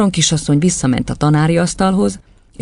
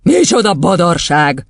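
slow, higher exclamation of disbelief; incredulous; 4 semitones higher, 4 dB louder, slower than usual. Acted. Headmistress rejecting the boy's claim, incredulous. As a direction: scoff in disbelief, stretching it out. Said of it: "hitetlenkedett Doron kisasszony".

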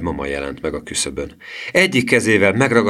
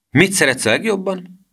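put-on high-pitched little-girl question; 12 semitones higher than usual. A narrator's reading. Girl asking her cousin about lunch, in little-girl voice. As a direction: ask it in a high child's voice. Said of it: "mondta a kislány".

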